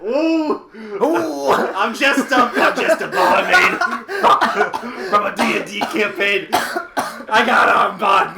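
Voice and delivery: high, slow, loud sassy barmaid. Acted. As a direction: ham it up as a flirty tavern barmaid. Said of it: "That is your barmaid voice".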